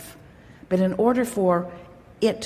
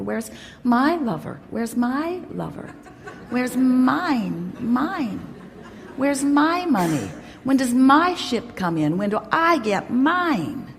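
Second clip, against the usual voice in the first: higher, hammed-up self-pitying whine; mock whining; 4 semitones higher, slower than usual. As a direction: play the pity party, pitched up and plaintive. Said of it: "stop acting like that".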